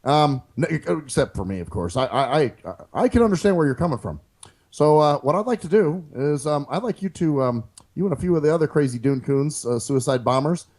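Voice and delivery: lightly voiced mock president on a call; calm, halting politician's phone manner, barely shifted; Obama prank call. Pretend Obama calling a terrorist on the phone, lightly voiced. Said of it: "it's Barack Obama from America".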